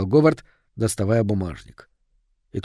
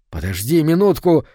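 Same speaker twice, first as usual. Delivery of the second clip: lightly raised call to stop; mild mock yell; 3 semitones higher than usual. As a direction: call out to halt him. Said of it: "заорал внутренний голос". (негромкий окрик)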